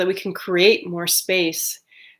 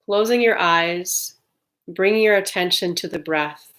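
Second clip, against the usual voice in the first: calm, unhurried meditation guide with long pauses; guided meditation. Real, not acted. Leading listeners to settle on the breath, calm guided meditation. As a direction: ease listeners into stillness, evenly and gently.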